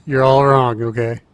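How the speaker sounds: broken robotic mic sound; garbled like a dying robot. Real, not acted. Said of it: "you sound like a dying robot".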